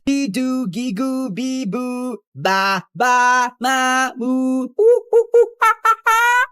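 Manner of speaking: put-on drown her out with silly baby noises; mocking baby babble. Drowning out D's rant, mocking baby babble. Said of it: "I'm not listening to your rant".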